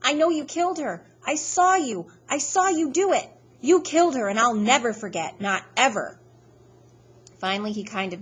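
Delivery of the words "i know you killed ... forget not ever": high, loud accusing scream; a boy screaming at the killer that he'll never forget, frantic. Acted. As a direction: scream it until your voice cracks. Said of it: "so all I can do is keep screaming".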